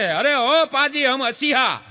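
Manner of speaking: slow, loud Punjabi call from the well; Punjabi accent. Retold or imitated. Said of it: "ઈ કે". (પંજાબી લહેકામાં ધીમી, મોટેથી બૂમ)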